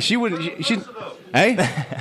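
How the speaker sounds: muffled through cupped hands; face in hands. Real, not acted. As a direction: talk into your hands. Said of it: "Just talking into your hands".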